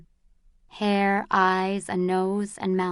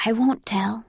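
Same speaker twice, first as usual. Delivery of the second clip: put-on gentle old man voice. A narrator's reading. Old man reassures frightened girl.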